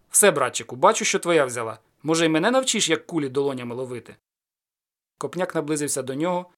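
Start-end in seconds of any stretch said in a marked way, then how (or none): 0.1-4.1 called out. Acted. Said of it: "кинув зброю на лаву і гукнув".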